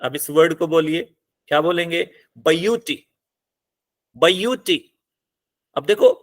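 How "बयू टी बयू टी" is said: ब्यूटी in two beats, ब-यू then टी; slight hold on ब्यू before टी; pause after first syllable. Shown as a demonstration. Teacher asking students to say the word, ब्यूटी with a slight break after ब्यू. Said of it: "आप बयू के बाद रुक रहे हो".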